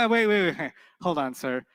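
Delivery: grammar police. Retold or imitated. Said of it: "the Arab grammar police came and said".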